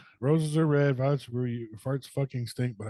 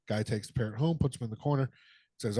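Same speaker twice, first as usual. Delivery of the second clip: normal talking voice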